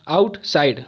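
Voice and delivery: आउटसाइड split into two beats; syllable by syllable. Shown as a demonstration. Teacher counting two syllables, आउटसाइड split apart. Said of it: "दो हुआ".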